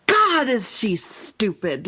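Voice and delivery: slow, drawn-out mock exasperation; retold disbelief, stretched out; exasperated reader. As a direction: groan it like a fed-up reader. Retold reader fed up with heroine.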